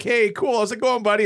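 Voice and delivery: high goofy bro greeting; dude voice. Retold or imitated.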